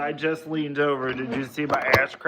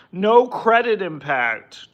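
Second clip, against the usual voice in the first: mock ad voice; 6 semitones higher, 7 dB louder, slower than usual. Reading a loan ad aloud.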